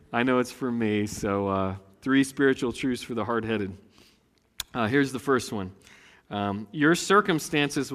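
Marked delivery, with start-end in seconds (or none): none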